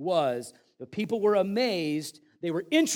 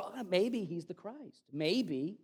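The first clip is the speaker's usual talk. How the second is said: mock wishy-washy; 4 dB quieter, much slower than usual. Mock half-hearted believer.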